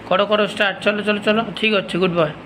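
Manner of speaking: high, eager urging; coaxing a dog. Real, not acted. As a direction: cheer the dog on.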